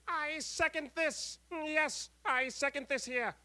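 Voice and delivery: very high, slow squeaky put-on voice; reading comment in put-on voice. Reading Skylar's comment aloud in a very high, slow put-on voice. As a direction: squeak it out in a silly character voice.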